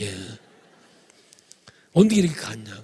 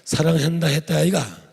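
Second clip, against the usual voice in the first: Gyeongsang dialect; 3 dB louder than usual. Retold or imitated. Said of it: "경상도 버전으로".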